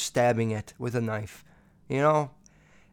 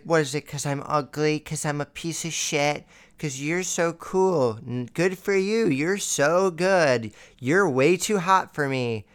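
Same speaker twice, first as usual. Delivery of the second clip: mocking self-pity; slower than usual. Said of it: "insulting herself and mocking me".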